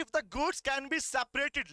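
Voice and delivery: slow, deliberate reading of the law text; slow dictation. Shown as a demonstration. Teacher dictating slowly to students. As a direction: dictate each word slowly to the class. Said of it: "कह रहा है".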